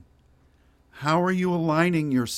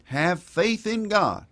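high, slow southern preacher drawl; southern accent; 7 semitones higher, slower than usual. Shown as a demonstration. Preacher repeating the scripture line to congregation, put-on southern accent. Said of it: "I'll say it in a southern accent".

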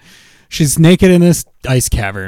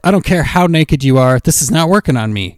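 fed-up orders; 3 semitones higher than usual. Acted. Acted fed-up Mando ordering frog lady.

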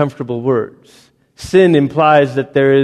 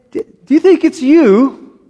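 high put-on voice of a friend; a gently teasing challenge; lightly voiced friend asking; mock question; 10 semitones higher, 3 dB louder than usual.

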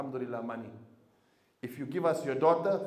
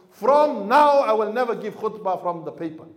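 determined vow; 4 semitones higher, 8 dB louder than usual. Retold or imitated. Retold vow to himself.

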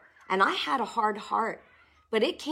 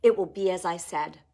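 firm refusal; 4 dB louder than usual. Shown as a demonstration. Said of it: "When doubt and unbelief comes in".

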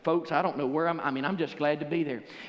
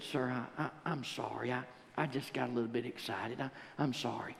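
much softer, lower apology; sheepish apology; 4 semitones lower, 9 dB quieter than usual. Retold or imitated. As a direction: mumble it, embarrassed. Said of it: "I leaned over and I said".

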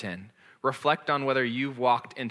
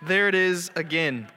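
high yelp, then laughing; busted by your own pride; laughing self-catch; 5 semitones higher, 3 dB louder than usual. Retold or imitated. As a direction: caught again, laughing. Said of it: "I'm like".

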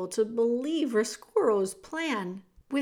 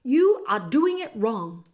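rat voice; 8 dB louder than usual. Acted. Roscuro rat voice.

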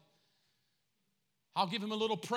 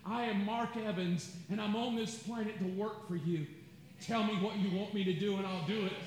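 humble prayer. Shown as a demonstration. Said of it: "I wake up and I go".

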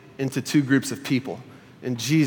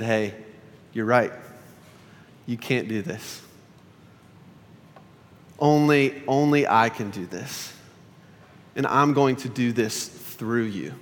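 gentle. Retold or imitated. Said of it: "just gently said".

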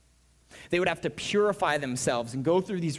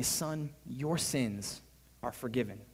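gentle blessing; 3 semitones lower, 5 dB quieter, slower than usual. Acted. Jesus blesses the lame man.

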